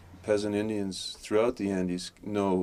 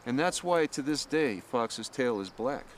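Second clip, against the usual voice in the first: higher-pitched, deliberate storyteller's voice; myth storytelling; 6 semitones higher than usual. Acted. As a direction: tell it like an old legend, phrase by phrase. Tells a myth aloud.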